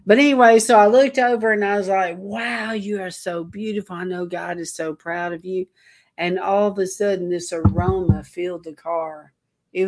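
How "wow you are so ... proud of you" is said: softer, hushed admiration; soft tender awe. Retold or imitated. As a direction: murmur it like a gentle compliment. Admiring trees while driving.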